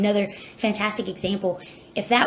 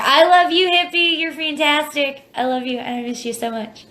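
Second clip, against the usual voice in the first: fighting back tears; 6 semitones higher, 5 dB louder than usual. Real, not acted. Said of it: "I don't wanna cry on here".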